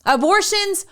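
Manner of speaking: a hint of suppressed giggles; mock reading, stifling laughter. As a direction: read it out while trying not to laugh. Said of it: "I can't even say it with a straight face".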